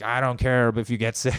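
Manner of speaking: brash, careless Trump send-up; lightly voiced Trump; mock Trump. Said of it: "it sounds like Trump's just like".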